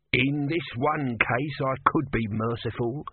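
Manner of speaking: grudging god, slowly; tortoise god voice. Acted. Tortoise speaking.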